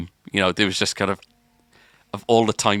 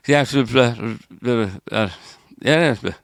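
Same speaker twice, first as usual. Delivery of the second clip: mock gibberish babble; 3 semitones higher, 4 dB louder than usual. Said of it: "that kind of sound".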